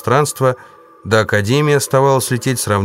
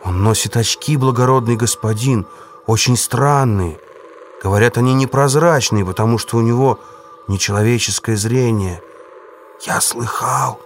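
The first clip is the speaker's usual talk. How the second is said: frightened jester voice; 2 semitones higher than usual. Acted. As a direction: play a cowering court fool. Jester keeps describing the Mule.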